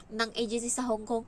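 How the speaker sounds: ordinary talk, nothing marked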